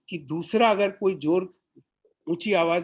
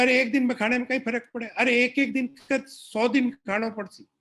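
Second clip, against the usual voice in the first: pushy relative; 6 semitones higher than usual. Retold or imitated. Relatives pushing food.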